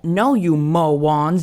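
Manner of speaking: "mowons" with w for r, very slow; says w for r. Retold or imitated. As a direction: draw out "mowons" with w sounds.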